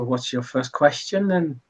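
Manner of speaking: put-on lightly Irish-accented bartender; light Irish lilt on the question. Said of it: "I keep doing Irish accent".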